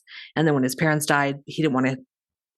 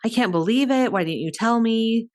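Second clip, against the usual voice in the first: higher-pitched mock disbelief; feigned surprise; 5 semitones higher than usual. Daughter pretends she forgot her parents' party, feigned surprise. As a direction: imitate a daughter faking surprise. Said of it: "daughter pretends to be surprised".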